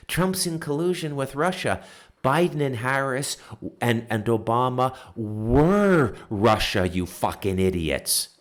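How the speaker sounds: furious mimicry ending in a curse; angry mock quote. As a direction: spit their line back at them in anger. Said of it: "I'm getting heated up".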